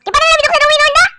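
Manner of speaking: fast excited whisper. Real, not acted. Checking the window while sneaking, quick whisper.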